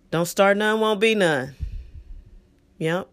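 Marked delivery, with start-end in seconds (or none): 0.1-1.5 put-on louder, higher old-school warning; a hint of a sassy old-school warning; old-school saying. Shown as a demonstration. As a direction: deliver it like a street-wise proverb. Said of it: "I'm going old school and very, very ethnic".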